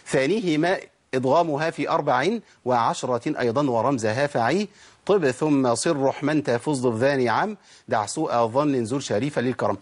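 measured chanting of a verse; slow, even teacher's verse chant; poem recitation. Shown as a demonstration. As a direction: recite the line like a memorized poem.

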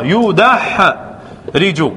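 يدحرج drawn out very slowly, syllable by syllable; teacher stretching يدحرج for the class; slowed teaching demo. Shown as a demonstration. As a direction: spell out يدحرج slowly so students hear each vowel. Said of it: "انظر".

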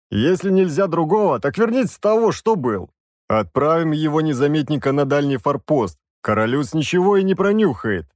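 hearty soldier boasting to the mage; бравый воевода. Acted. Голос воеводы. (бравый голос воеводы)

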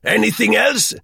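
an impatient police chief on the phone; sharp, annoyed official answering; irritable commissaire. Acted. Begin after chuckling.

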